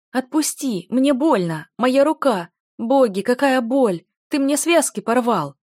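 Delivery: milk the fake injury for witnesses; hammed-up pained wailing. Dick faking a torn wrist for the crowd, wailing. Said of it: "застонал этот самый Дик".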